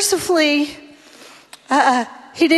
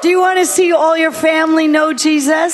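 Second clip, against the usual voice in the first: fired-up preacher appeal; preaching shout. Real, not acted. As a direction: call it out to stir the church. Preacher rallying the crowd.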